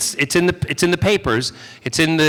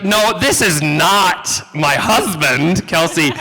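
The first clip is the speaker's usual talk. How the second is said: slow, amused correction; sweet southern shade; 4 semitones higher, slower than usual. Retold or imitated. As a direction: lay it out slowly with a laugh. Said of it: "She's like".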